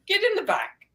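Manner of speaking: put-on Irish accent. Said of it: "gave us a wonderful Irish accent".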